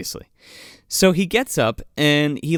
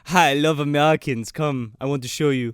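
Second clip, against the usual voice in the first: put-on German accent; 6 semitones lower than usual. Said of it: "I went to German by accident".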